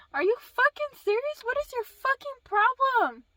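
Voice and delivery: high, loud, incredulous demand; retold angry outburst. Daughter reacting to mom's text, retold angry outburst. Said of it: "I was so mad".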